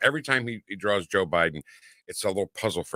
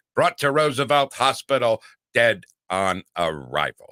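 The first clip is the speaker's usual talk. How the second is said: nasal, choppy sportscaster-style announcer delivery. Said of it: "That's the way he said it".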